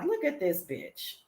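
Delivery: soft, slow disbelieving aside; quiet aside. Retold or imitated. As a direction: say it slowly under your breath. Aside about her in disbelief.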